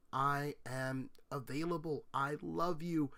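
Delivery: slow and soft, lovingly; tender reassurance. Retold or imitated. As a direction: reassure the outcast gently. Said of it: "Jesus there going off and saying".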